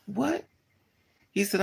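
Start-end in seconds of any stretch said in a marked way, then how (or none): 0.1-0.5 shocked what. Retold or imitated. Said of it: "And I was like".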